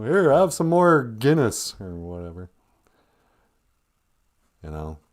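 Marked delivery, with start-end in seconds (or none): 0.0-1.7 mock offer.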